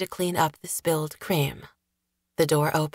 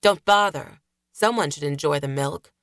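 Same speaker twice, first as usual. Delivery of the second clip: sharp, louder irritated snap; snapped; 2 semitones lower, 3 dB louder than usual. Acted. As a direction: bite the words off in irritation. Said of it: "but Gregor snapped".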